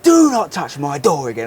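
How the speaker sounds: slow, controlled mock telling-off. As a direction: lay down the law, word by word. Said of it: "to, like, really raise my voice".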